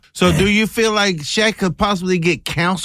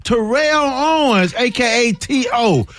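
ladies-and-gentlemen radio intro, pitched up; radio host announcement; 5 semitones higher than usual. Acted. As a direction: announce the next topic like a showman. Introduces the next topic.

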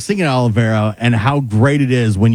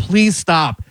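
imitating a driver begging, slightly higher pitch; retold plea to stop; pleading bus driver; 4 semitones higher than usual. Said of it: "the bus driver's begging".

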